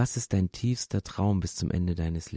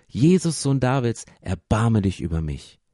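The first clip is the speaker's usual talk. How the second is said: pleading call; 4 dB louder than usual. Acted. Bartimäus begs Jesus, loud call easing down. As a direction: call out the name, then settle into pleading. Beggar calls out to Jesus again.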